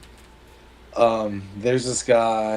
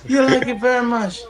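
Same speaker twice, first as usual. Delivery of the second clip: much higher put-on voice for the doctor, louder; a high, louder cartoonish surgeon; 13 semitones higher, 3 dB louder than usual. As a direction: play the joke's doctor up high and eager. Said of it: "And the doctor says".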